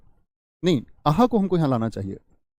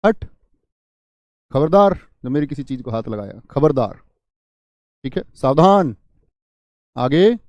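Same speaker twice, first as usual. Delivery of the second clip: loud stern warning; 4 dB louder than usual. Shown as a demonstration. Teacher demonstrating warnings to students, stern warning. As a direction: warn them off firmly. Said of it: "चेतावनी बोधक".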